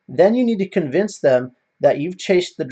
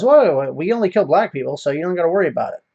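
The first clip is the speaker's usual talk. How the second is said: sarcastic; 4 semitones higher, 4 dB louder, faster than usual. Retold or imitated. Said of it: "being sarcastic".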